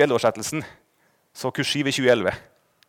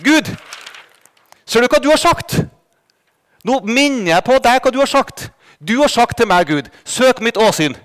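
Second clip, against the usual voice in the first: pleading prayer; 3 semitones higher than usual. Retold or imitated. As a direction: remind God of his promise, insistently. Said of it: "Og så sier jeg til Gud". (inntrengende bønn til Gud)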